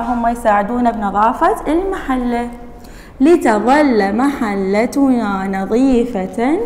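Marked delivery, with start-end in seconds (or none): 3.2-6.6 words stretched out; slow dictation reading. Shown as a demonstration. Teacher dictating the sentence slowly to the class. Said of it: "dictation reading".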